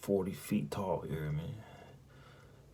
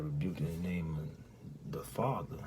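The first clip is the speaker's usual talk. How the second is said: whispered rebuke; slower than usual. Retold or imitated. Last desperate rebuke in dream.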